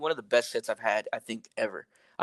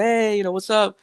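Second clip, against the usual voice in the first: imitated stage greeting, pitched up; performer greeting crowd; 9 semitones higher than usual. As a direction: call it out like hyping a crowd.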